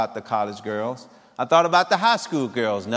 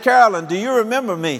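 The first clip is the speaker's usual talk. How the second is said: higher and louder, bursting with eagerness; excited; 6 semitones higher, 4 dB louder, faster than usual. Retold or imitated. Man reaching his old girlfriend at last, excited. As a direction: blurt it out, thrilled to hear her. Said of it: "And man, I got excited".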